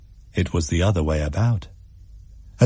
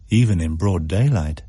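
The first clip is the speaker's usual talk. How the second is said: usual speaking voice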